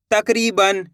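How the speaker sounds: तकरीबन split as tak, ree, ban; chunk by chunk. Shown as a demonstration. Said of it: "दो दो करके".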